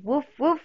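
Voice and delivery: dog woof. Shown as a demonstration. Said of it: "What's the doggy say?".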